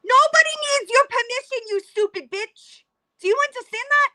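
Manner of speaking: high, fast burst of irritation, then dropping; real exasperated retort; exasperated outburst. Real, not acted. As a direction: snap back at the ranter, fed up. Exasperated reaction to a ranting video.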